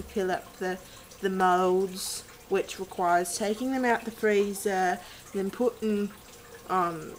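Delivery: wobbly British accent, sliding toward Australian; loosely imitated British accent, almost Australian; attempted British accent. Shown as a demonstration. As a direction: put on an amateur British accent. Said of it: "more like an Australian accent".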